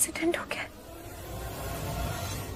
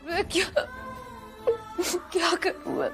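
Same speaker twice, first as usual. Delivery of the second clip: tearful. Acted. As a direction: cry through the confession. Tearful monologue alone.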